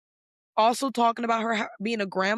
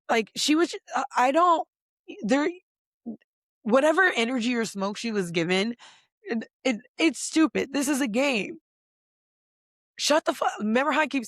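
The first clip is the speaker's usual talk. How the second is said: heated rant; 5 semitones higher than usual. Real, not acted. Heated rant about the fight.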